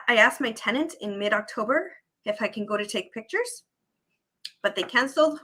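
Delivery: talking around a candy; candy in the mouth while speaking; mouth full. Real, not acted. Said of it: "Sorry, I have a candy in my mouth".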